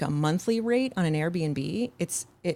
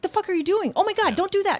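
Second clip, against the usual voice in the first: put-on screaming, higher. Retelling watching a horror movie: imitating screaming at the TV. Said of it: "I was screaming at my T V".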